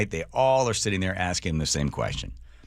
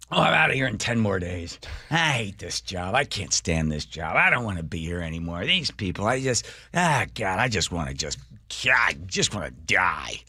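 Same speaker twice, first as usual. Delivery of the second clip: fed-up lament. Retold or imitated. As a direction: moan it out like a worker who hates the job. Acting fed-up clerk's lament.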